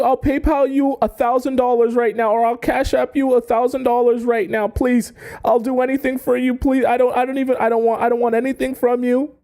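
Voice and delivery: high, desperate pleading voice; begging admirer. Retold or imitated. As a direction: beg her to take the money, way up high. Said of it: "And he's telling you".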